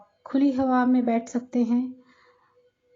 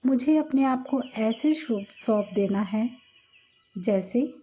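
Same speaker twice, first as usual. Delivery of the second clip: calm meditation guide, long pauses between phrases; guided meditation; 3 dB quieter than usual. Acted. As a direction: guide them gently inward, unhurried. (ध्यान कराती शांत आवाज़, ठहर-ठहर कर)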